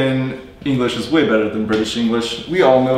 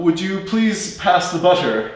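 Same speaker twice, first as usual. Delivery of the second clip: a lightly posh 'butter' with a crisp T; mock over-pronounced English; 4 semitones higher than usual. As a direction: play a stiff, over-correct speaker asking for butter. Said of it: "Do you really say it that way?".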